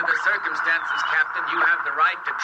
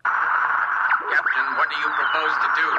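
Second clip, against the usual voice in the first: radio voice breaking up; slower than usual. Acted.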